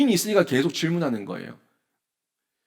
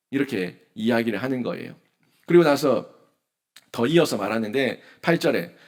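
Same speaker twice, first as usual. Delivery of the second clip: usual speaking voice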